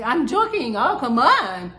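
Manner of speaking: mocking a girlfriend waving off a hurtful joke; mock dismissive girlfriend. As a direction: toss it off like it was nothing. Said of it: "She's like".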